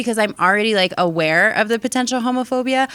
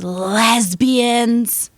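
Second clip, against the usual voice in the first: a hint of a sneering man's voice; lightly voiced contemptuous stranger; 3 semitones higher, 3 dB louder than usual. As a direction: spit the word out with scorn. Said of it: "most contemptuous, scary face and goes".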